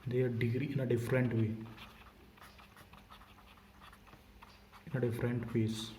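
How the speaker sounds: slow, each word separate; slow dictation. Shown as a demonstration. Teacher dictating to students copying notes, slowly. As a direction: dictate so the class can write. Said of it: "लिख लो".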